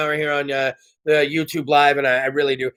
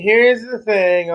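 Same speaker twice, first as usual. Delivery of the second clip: slow emphatic; 3 semitones higher, much slower than usual. Shown as a demonstration. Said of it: "Now, here's the thing".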